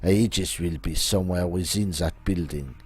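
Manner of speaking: put-on theatrical French-accented schemer. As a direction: announce the plan in a hammy French accent. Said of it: "my accent".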